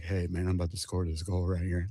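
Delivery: whisper-soft trash talk in your ear; soft-spoken trash talk. Retold or imitated. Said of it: "he's like".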